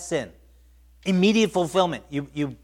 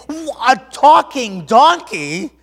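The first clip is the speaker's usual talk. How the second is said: high, loud, drawn-out amazement; acted astonishment; 8 semitones higher, 11 dB louder, much slower than usual. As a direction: stretch it out, utterly amazed. Acts astonishment at talking donkey.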